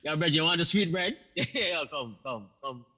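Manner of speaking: lightly put-on Jamaican street patois; soft, teasing Jamaican accent. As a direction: coax a friend over in casual Jamaican patois. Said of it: "somebody in Jamaica".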